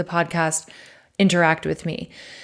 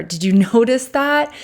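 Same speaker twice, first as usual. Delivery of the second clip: laughing at himself; 5 semitones higher, 3 dB louder than usual. Real, not acted. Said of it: "I'm just laughing at myself".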